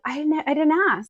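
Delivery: curt retort. Retold or imitated. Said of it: "I'm like".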